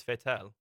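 "Vettel" as fet-TELL, F at the start; German-style pronunciation. Shown as a demonstration. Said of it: "how you say it in a German accent".

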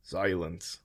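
John silencing the crowd, commanding. A narrator's reading. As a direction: silence a whole crowd with one word. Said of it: "It was a commanding voice".

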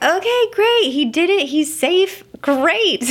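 a burst of high relief, overjoyed he's safe; relieved. Retold or imitated. Mother watching her son land safely, bursting with relief.

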